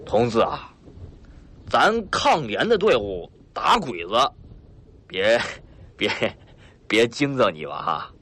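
a hearty, swaggering northeastern boss, lightly voiced; a boastful mountain boss, mildly put-on; rough bandit chief Lao Hu. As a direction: play the sly bandit chief, chuckling at his guest.

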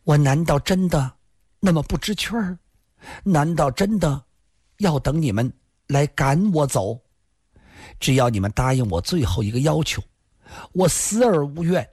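high, plaintive woman's voice; bleak, pitiful. A narrator's reading. Lin begging one last request, bleakly pitiful. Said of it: "林仙儿惨然笑道".

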